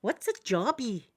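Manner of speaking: lightly imitated puzzled wee girl; a hint of a child puzzling over JOBBY. Wee girl in restroom asking her mum, lightly imitated child. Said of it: "I hear a wee girl going".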